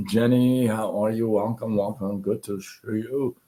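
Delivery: losing his voice; a hoarse, worn-out voice. Real, not acted. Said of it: "I think I've lost my voice".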